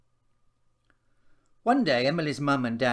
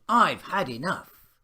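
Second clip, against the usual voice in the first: loud, fed-up cry; child shouting; 6 semitones higher, 8 dB louder than usual. A narrator's reading. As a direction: let the frustration burst out. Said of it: "she shouted".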